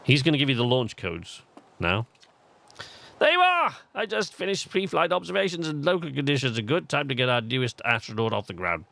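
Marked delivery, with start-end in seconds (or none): 3.2-8.8 lightly voiced English-accented game character; high, hearty English-accented greeting, then settling. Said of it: "why he has an English accent".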